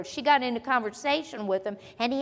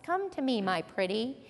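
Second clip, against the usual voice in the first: a light, softer wicked witch croon; quick nod to the Oz witch, softer; Wizard of Oz witch; 3 semitones lower, 5 dB quieter than usual. Retold or imitated. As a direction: coax like a storybook witch, softly. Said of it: "I think I heard that on The Wizard of Oz".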